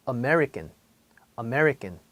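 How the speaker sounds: American with the first syllable stretched, not 아메리칸; American pronunciation. Shown as a demonstration. Teacher shows students how Americans say American. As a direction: say American the way New Yorkers do. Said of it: "사실 미국에서는 이 발음을".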